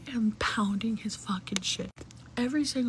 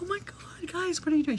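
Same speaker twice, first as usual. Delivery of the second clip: much higher, feigned shock at a friend turning up; higher mock surprise; fake surprise; 8 semitones higher than usual. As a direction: act as if you never expected them. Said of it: "I'm like".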